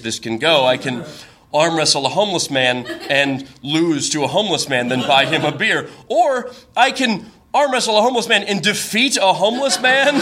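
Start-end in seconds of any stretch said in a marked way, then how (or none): 6.1-10.2 rising into a high laugh. Real, not acted. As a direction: crack up at the absurd idea. Absurd option, laughing.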